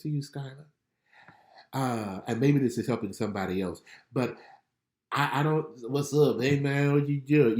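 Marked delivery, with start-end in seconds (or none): 5.9-7.6 loose, unenunciated street greeting; lightly voiced old casual self; casual slangy greeting. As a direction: toss it off lazily without enunciating. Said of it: "I used to not enunciate my words".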